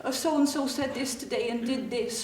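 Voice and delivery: mock complaint, lightly put on; fake complaining. Girl mimics schoolmates' gossip, mock complaining. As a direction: imitate girls pretending to be bothered. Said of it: "most of it was fake".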